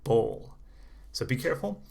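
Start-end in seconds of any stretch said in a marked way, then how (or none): 0.0-0.6 bowl with a long oh before the L; word modelled clearly. Shown as a demonstration. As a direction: isolate bowl, rounded oh into L. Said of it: "is a bowl".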